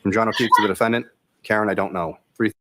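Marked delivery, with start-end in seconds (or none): 1.4-2.2 monotone. Real, not acted. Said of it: "But listen to how he says it".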